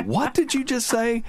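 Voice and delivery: high-pitched mock disbelief; hammed-up shocked question; incredulous. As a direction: act out a stunned double take. Retold shocked demand to repeat it.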